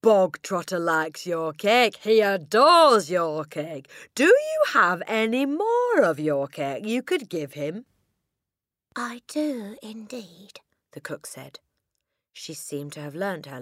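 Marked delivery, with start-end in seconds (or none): 0.0-7.8 high, loud, slow mock delight; crying out. A narrator's reading. Headmistress asking cook for more cake, crying out. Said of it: "the Trunchbull cried". 9.0-10.6 high cook's voice, softening at the end; put-on cook voice. A narrator's reading. Cook answering the headmistress on cue, high-voiced.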